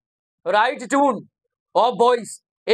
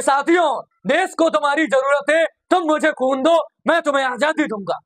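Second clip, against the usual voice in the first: fiery rallying call. Retold or imitated. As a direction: rouse the crowd with a touch of fire. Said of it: "अपनी आंखों में खून डालकर बोले". (जोशीला नारा, हल्का सा जोश)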